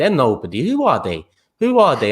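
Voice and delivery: put-on dismissive tone, animated and swooping, reassuring. Mocking how teammates reassure a player: imitating teammates reassuring Xhaka. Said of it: "go around him like".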